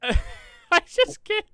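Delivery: high, slow, laughing I just can't; laughing helplessly. Real, not acted. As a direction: gasp it out through laughter. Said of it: "I'm laughing 'cause".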